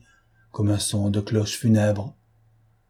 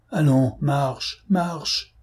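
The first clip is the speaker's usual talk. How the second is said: stern command; 4 semitones higher, much slower than usual. A narrator's reading. Thioblas commands marquise to walk.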